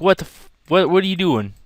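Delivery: mock yelling. Shown as a demonstration. To the couple in his seat, a mock yell. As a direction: play-act shouting at the guys in his seat. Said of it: "This is me yelling".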